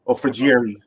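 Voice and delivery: Ferrieri said the English way, anglicized; Ferrieri, Americanized; English pronunciation. Shown as a demonstration. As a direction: flatten Ferrieri into English sounds. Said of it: "if you guys want it in English".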